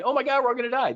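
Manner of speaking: high hammed-up doom cry; mock panic. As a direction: wail like a frightened crowd. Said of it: "It wasn't like an".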